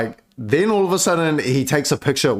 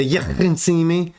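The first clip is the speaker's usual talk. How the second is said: put-on Scouser accent; 4 semitones higher than usual. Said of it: "I'd never caught the Scouser accent".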